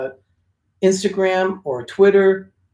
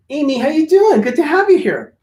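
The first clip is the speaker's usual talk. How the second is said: bright, high welcome to a viewer; excited greeting; 11 semitones higher, 4 dB louder than usual. Real, not acted.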